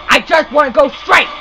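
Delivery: pleading, exasperated insistence; insistent frustration. Real, not acted. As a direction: insist on it as patience runs out. Repeats complaint more insistently.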